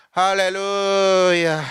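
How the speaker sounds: long, drawn-out droning hallelujah; mock manuscript preaching. Shown as a demonstration. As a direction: stretch it slowly like a stiff preacher. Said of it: "이런 설교 말고".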